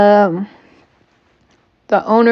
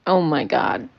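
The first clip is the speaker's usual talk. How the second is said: talking through a yawn; 8 dB quieter than usual. Real, not acted. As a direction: yawn the words out. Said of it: "Sorry for the yawning".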